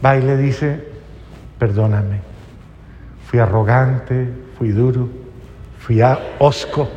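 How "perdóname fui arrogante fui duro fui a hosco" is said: low, paused, contrite delivery; a husband owning up, pitch dropped, phrase by phrase; disculpa del esposo. Acted. Esposo pide perdón a esposa. (arrepentimiento contenido, grave y pausado)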